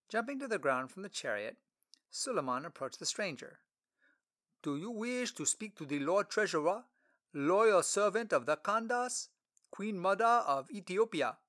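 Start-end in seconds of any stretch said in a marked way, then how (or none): 4.6-11.4 put-on lightly higher, polite boy servant; a formal, eager young servant asking.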